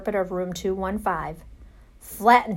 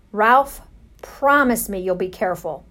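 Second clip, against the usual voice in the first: pleading; 4 dB louder than usual. Acted. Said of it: "pleaded his mother".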